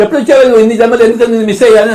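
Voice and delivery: mock guru overjoyed to meet a follower; dramatic guru line. Shown as a demonstration. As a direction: gush over the disciple like a stage mystic. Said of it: "కళ్ళలో కనిపెట్టి".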